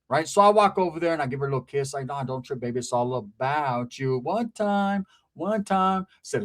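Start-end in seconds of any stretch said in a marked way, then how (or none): 2.1-4.2 soothing. Retold or imitated. Sweet-talking his girl.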